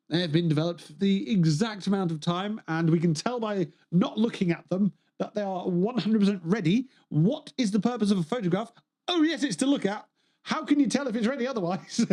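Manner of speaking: mock sarcasm. Streamer mocking silly photo customers with sing-song sarcasm. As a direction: lay on the sarcasm like explaining something obvious.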